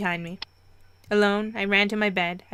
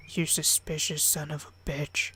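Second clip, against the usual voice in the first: mock sneer; 5 semitones lower, 5 dB quieter than usual. Character insults departing friend.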